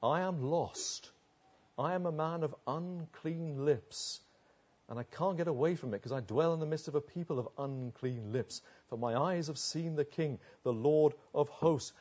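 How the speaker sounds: subdued, acted brokenness; broken confession. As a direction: confess it quietly, like someone humbled and broken. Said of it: "unless they're broken".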